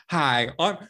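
lightly voiced TV host imitation; Doctor Phil. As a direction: deliver mock threats as a TV-doctor parody. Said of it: "I love that Doctor Phil".

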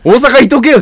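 very high, loud comeback; hammed-up yell of indignation; mock angry retort. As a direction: fire back in playful outrage. Playful retort in acted quarrel.

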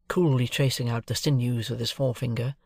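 plain reading voice

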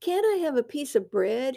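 put-on high whining teen son; nasal whine. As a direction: whine like a starving teenager. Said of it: "he whined".

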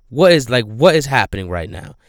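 loud, outraged viewer; indignant disbelief. Real, not acted. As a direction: demand to know what's happening. Indignant at the scene.

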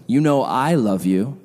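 slow line with "I" singled out; measured assertion, emphasis on "I"; stress on I. Acted. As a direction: lean on "I" in "You know I love you". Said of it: "Emphasis on the I".

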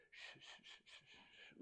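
soft unvoiced shushing. God hushing an overeager Peter, soft shushing. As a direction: hush him gently, breath only. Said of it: "it's like God just goes".

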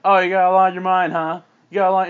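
mocking retort. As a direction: throw the words back scornfully. Mom mocks daughter in quarrel.

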